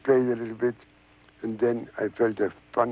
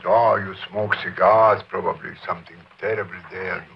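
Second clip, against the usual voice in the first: nervous wife; 4 semitones lower, 4 dB louder than usual. Retold or imitated. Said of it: "my wife became very nervous".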